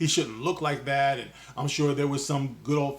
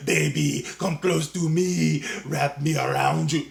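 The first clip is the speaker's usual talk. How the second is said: slow, hammed-up come-hither croon; mock seductive; 5 dB louder than usual. Vlogger hamming up a lover's call to viewers, mock seductive. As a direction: play at a lover's coo, slowly. Mock romance before "Okay, anyway.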